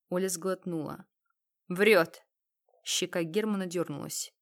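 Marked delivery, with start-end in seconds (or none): 1.7-2.2 loud accusation. Acted. Thug accuses her.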